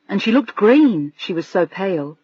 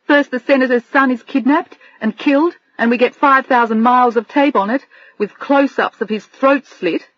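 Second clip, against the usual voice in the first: higher, upset telling through tears; tearful; 4 semitones higher than usual. Acted. Adrian telling Bill about the awful day, tearful. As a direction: near sobbing as you recount it. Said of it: "She sobbed again".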